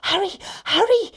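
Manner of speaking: high, loud, urgent piggy warning; panicked little pig calling out; breathless cry. A narrator's reading. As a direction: cry out as if you've been running. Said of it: "he cried, out of breath".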